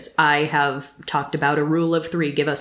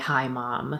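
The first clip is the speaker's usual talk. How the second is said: imitated, mock-defeated tone, quieter; 3 semitones lower, 8 dB quieter than usual. Describing a private scene where she folds into herself, imitating a defeated tone. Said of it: "with a much more defeated tone of voice".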